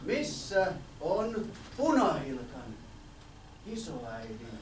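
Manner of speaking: slow, low, sly wolf voice. Acted. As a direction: coax the boy, drawing it out. Wolf speaks slowly.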